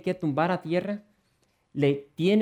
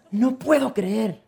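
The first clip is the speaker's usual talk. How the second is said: disbelief; 7 semitones higher, 6 dB louder, slower than usual. Acted. Husband's disbelieving thought.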